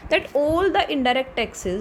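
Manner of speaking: very slow, word by word, as if for notes; slow dictation. Shown as a demonstration. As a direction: dictate each word so students can write. Teacher dictating a definition.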